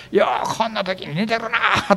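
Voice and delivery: hammed-up sarcastic wail; sarcastic complaint. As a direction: complain pointedly, imitating a fed-up disciple. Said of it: "すっごい皮肉の気持ちを込めて".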